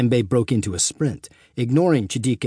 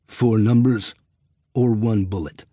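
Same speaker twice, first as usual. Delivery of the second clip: dark whisper behind you. A narrator's reading. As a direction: menace him from behind, flint-hard. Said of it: "his tone flint-hard and uncompromising".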